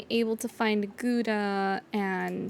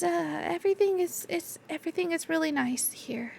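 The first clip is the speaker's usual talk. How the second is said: shy Gouda. Acted. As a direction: stumble shyly over the words. GM voices Gouda.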